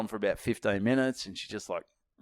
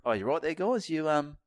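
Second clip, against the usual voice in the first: sarcastic call-out; 5 semitones higher than usual. Retold or imitated. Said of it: "I go".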